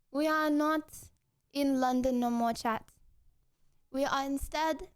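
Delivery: put-on French accent. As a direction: speak English with a French accent. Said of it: "The accent starts when I start".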